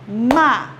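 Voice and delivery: Ma-ca-co split into three clapped beats; syllable-by-syllable clapping. Shown as a demonstration. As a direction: clap each syllable of Ma-ca-co. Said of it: "eu vou bater palma".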